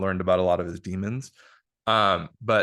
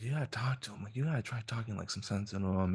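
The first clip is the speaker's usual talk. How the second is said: hushed retold plea; 8 dB quieter, faster than usual. Retelling hushed plea to her mom.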